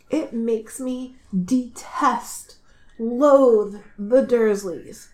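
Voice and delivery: "detest" and "loathe" slowly drawn out with weight; emphatic loathing. Real, not acted. Fan condemning the boy's relatives, "detest" and "loathe" slow and emphatic. Venting hatred of the Dursleys.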